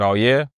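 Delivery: low "Oh, yeah?", lifting at the end; questioning comeback. Retold or imitated. Man retelling his reply to police, low questioning comeback. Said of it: "I literally just said it like that".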